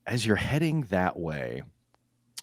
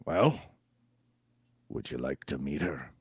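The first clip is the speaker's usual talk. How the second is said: sly quiet offer; 5 semitones lower, 5 dB quieter than usual. Acted. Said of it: "and they say".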